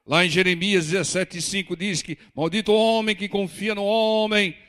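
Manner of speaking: mock preacher quoting scripture loudly; religious preacher. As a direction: imitate a zealot thundering out a verse. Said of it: "Não precisa pregar como religioso".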